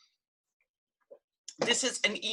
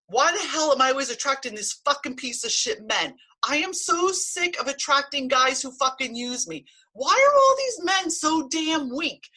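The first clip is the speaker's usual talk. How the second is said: higher and louder, cursing angry rant; venting rage; 5 semitones higher, 4 dB louder than usual. Shown as a demonstration. Demonstrating tapping by ranting at bad exes, loud and furious. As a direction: let the fury out at the men you keep attracting. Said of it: "that you actually share the rage".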